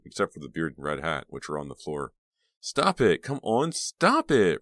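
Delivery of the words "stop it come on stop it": high, loud plea; urgent pleading. A narrator's reading. Reva tries to end the boys' fight, pleading. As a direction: beg them loudly to stop. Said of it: "Reva pleaded".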